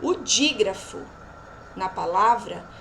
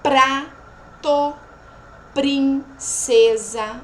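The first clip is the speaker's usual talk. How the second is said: PRATO and PRINCESA loud, split into syllables; 6 dB louder, much slower than usual. Shown as a demonstration. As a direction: pause inside PRATO and PRINCESA, cluster kept together. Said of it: "trouxe mais exemplos pra vocês verem". (PRATO e PRINCESA, sílaba por sílaba)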